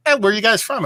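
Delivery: high, bright mock-greeting of the woman at the counter; friendly bartender. Counter woman greets visiting beer fans, lightly high voice. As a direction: play the cheerful woman behind the bar. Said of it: "the woman behind the counter was like".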